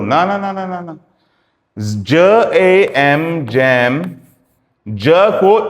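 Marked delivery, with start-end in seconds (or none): 0.0-1.0 teasing no, no, no, fading away; playful no no no. Real, not acted. Teacher ruling out a wrong guess, teasing. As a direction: wag a finger at the mistake. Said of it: "कि मैं इसको ग बोलूं या ज बोलूं".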